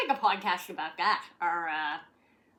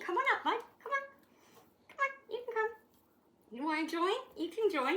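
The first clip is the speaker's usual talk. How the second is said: high coaxing; 12 semitones higher, much faster than usual. Real, not acted. Coaxing dog.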